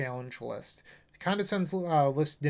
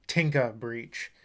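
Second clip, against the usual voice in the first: light Boston accent on the deck name; 3 semitones lower, slower than usual. Shown as a demonstration. Introducing the deck to viewers in a playful Boston accent. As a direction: drop the R, Boston style. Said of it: "say it like you're from Boston".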